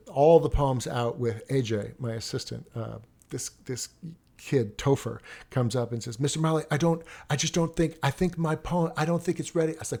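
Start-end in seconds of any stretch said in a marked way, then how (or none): 6.2-9.7 higher-pitched, faltering student voice; hesitant student. Retold or imitated. Student asking teacher to hold back his poem, nervous. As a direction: stumble through a nervous excuse, pitched up.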